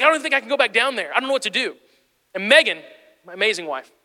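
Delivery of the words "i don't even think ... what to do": retold fretting. Brother frets in story.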